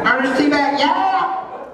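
high-pitched wild whoop; Ernest T. Bass. Acted. Preacher reminding church of TV rock-thrower, high holler. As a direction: holler it high, stretching the yeah. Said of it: "you remember anybody, remember Ernest T".

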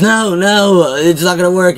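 retelling Nicholas losing it in a panic; freaking out. Retold or imitated. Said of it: "Nicholas starts freaking out".

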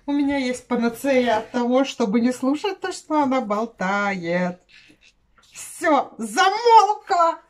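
shouting in mock annoyance; loud exasperated rant. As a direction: yell it out, fed up. Complaining about a chatterbox. (громко, с раздражением)

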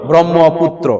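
"ব্রহ্মপুত্র" with long mm and no h; silent h, doubled m. Shown as a demonstration. Teacher answers what we will say, ব্রহ্মপুত্র with doubled m. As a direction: say ব্রহ্মপুত্র as brommo-putro, low and measured. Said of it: "হ কে আমরা silent করে দিয়ে ম কে দ্বিত্ব উচ্চারণ করব".

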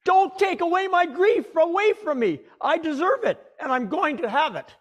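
put-on grieving mother flaring up at the young pastor; fiery outburst. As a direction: hurl it back at the pastor. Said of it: "said with fire in her voice".

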